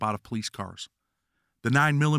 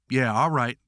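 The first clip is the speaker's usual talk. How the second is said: sneering; 4 dB louder than usual. Acted. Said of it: "the guard sneers back".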